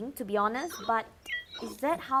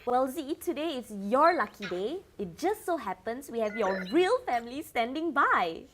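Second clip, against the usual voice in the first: excited host; 3 semitones higher, 4 dB louder than usual. Acted. Host hypes big reveal.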